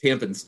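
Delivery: "Tampons" with a weak second vowel, like "tampins"; relative's mispronunciation. Retold or imitated. Host repeating the relative's version, relative's mispronunciation. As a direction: say "Tampons" as TAM-pinz. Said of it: "this relative refers to tampons as".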